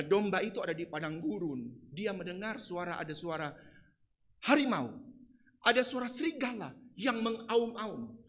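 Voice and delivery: ordinary talk, nothing marked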